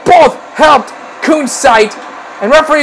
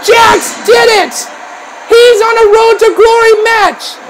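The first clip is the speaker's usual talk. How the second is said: raised, jubilant commentary; triumphant shout; 4 semitones higher than usual. Real, not acted. Commentator celebrating Jax reaching Road to Glory, triumphant shouting. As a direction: proclaim the upset win.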